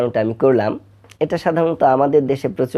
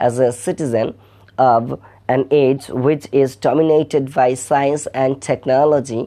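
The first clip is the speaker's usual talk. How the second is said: formal speech; much slower than usual. Acted. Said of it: "lecturing in English".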